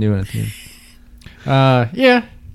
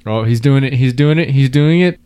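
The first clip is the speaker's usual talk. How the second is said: building cheer, louder each time; excited cheering; 3 semitones higher, 4 dB louder than usual. Real, not acted. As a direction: cheer him on as he chugs. Cheering him on chugging.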